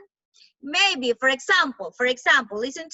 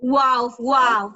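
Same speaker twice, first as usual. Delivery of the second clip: dog barks; 4 semitones lower, 4 dB louder than usual. Shown as a demonstration. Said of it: "the dog".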